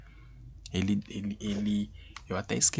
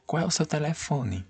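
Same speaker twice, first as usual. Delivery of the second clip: higher asking voice; question tune; 6 semitones higher than usual. Shown as a demonstration. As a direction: ask it plainly. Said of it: "Ponto de interrogação".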